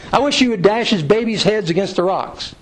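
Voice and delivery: mildly angry plea, pitched a little up; a touch of upset in a prayer for revenge; lightly acted angry outcry to God; David. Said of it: "He's angry".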